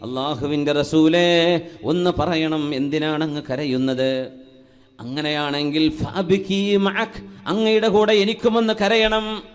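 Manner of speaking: sermon storytelling with stretched calls of address; projected preaching. Acted. Preacher retelling Bilal's question to the Prophet, projected sermon voice. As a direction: carry the plea out to the congregation.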